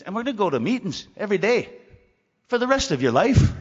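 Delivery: emphatic sponsor. Retold or imitated. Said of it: "then he says".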